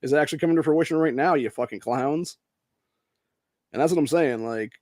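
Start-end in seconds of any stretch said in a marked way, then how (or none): 0.0-2.4 loud, higher, exasperated comeback; mild mock telling-off of the press; impersonating Kyrie, lightly heated; fed-up retort. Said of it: "and he's like".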